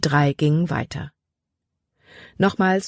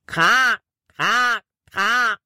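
high cawing crow call, kra kra kra; crow call imitation; 6 semitones higher, much slower than usual. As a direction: caw like a real crow hiding in the bushes. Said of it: "Das klang so echt".

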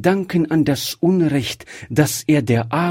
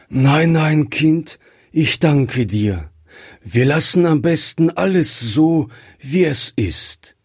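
answering quickly; 6 semitones higher than usual. A narrator's reading. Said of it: "antwortete schnell Griffier".

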